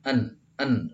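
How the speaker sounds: "En, en" as a bare word ending without g; isolated final sound "en", g dropped. Shown as a demonstration. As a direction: demonstrate "En" ending on a clean n. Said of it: "ujungnya en".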